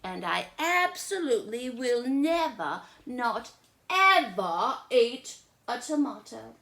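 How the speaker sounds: high, loud stubborn list; picky girl listing foods she won't eat; fussy little sister. Acted. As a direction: rattle off everything she refuses. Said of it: "I do not eat".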